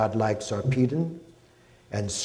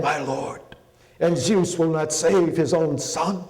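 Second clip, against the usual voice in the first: wounded warrior crying out to his god, higher and louder; a desperate plea to Apollo, voice straining upward; anguished prayer; 4 semitones higher, 3 dB louder than usual. A narrator's reading. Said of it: "He prayed to Apollo".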